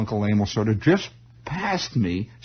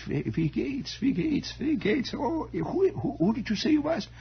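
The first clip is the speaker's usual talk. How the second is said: put-on confused old German uncle; 4 dB quieter than usual. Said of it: "they all had this vague German accent".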